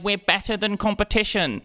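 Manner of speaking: high, mocking cry; mock screaming. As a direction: mimic everyone in a high, strained voice. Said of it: "we're screaming into the mic again".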